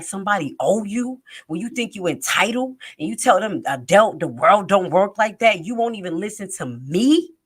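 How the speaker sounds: mother confronting her daughter, acting like a street thug; street thug confrontation. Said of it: "like I was a thug in the street".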